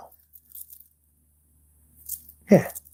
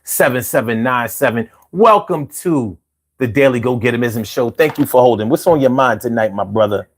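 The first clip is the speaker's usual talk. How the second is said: upbeat radio host; radio host intro. Acted. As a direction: welcome the caller like a DJ. Radio host taking a call.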